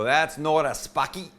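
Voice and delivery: attempted Boston accent, drawn out; slow mock-Boston objection. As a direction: play a Bostonian correcting you, badly faked accent. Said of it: "somebody from Boston's gonna go".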